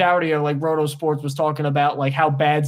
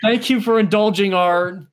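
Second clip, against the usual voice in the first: laughing; 3 semitones higher, slower than usual. Real, not acted. Laughing at worst timeline.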